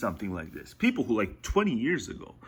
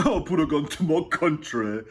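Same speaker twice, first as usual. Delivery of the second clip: mock melodrama; 4 semitones higher than usual. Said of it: "being overly melodramatic".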